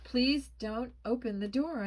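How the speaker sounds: high, loud, urgent plea; begging. A narrator's reading. Boy silently begs Mom not to open door, pleading. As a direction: plead desperately to be left alone. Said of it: "I begged silently".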